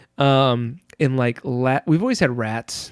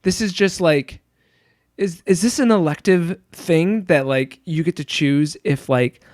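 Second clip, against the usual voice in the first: incredulous; 5 semitones higher than usual. Retold or imitated. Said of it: "And I'm like".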